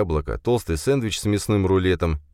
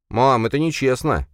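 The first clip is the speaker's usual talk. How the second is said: indignant yell; 8 semitones higher, 4 dB louder than usual. A narrator's reading. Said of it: "возмущённо завопил Джейсон".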